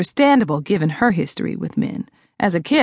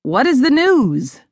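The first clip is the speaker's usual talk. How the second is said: expectant; 5 semitones higher, slower than usual. A narrator's reading. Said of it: "I said expectantly".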